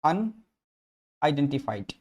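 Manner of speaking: "अनआइडेंटिफाइड" stretched out very slowly; slow syllable-by-syllable. Shown as a demonstration. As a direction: draw out "अनआइडेंटिफाइड" syllable by syllable like a teacher. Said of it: "वो अनआइडेंटिफाइड है". ("अनआइडेंटिफाइड" को बहुत धीरे, एक-एक अक्षर खींचकर बोलें)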